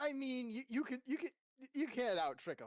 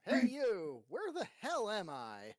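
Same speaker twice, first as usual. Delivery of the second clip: loud, then slower; shouted demand; 3 semitones higher, 5 dB louder, slower than usual. Pretend. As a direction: yell it at him.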